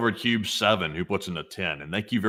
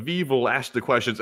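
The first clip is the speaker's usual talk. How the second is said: put-on "we will" said as "vi vəl", light German accent; hammed-up German interrogator accent; mock German accent; 2 semitones higher than usual. Reading out a viewer's joke in a German accent. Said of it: "That is a German accent".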